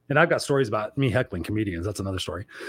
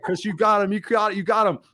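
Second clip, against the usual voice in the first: high-pitched crowd of excited coworkers; imitated gleeful cheering; 7 semitones higher than usual. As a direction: mimic staff crowing over the boss's win. Laughing staff cheering the boss on.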